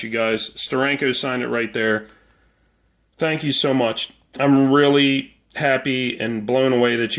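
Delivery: dragging through it, worn out; hungover. Real, not acted. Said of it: "I'm hungover and a little ornery feeling".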